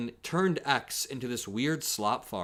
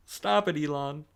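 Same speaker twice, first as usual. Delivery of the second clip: laughing mock plea; 5 semitones higher than usual.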